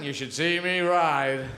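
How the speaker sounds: suggestive line. Acted. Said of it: "It goes both ways".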